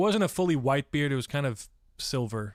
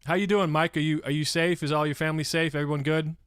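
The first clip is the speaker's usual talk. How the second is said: louder, eager check-in; loud greeting; 3 semitones higher, 4 dB louder than usual. Real, not acted. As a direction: call out to a viewer, a bit too loud. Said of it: "Sorry for yelling".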